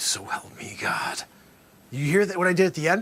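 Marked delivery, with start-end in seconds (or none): 0.0-1.2 dropped almost to a whisper, very slow. Speaker shows Dusty how to finish the oath, near whisper. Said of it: "you got to almost come down to a whisper".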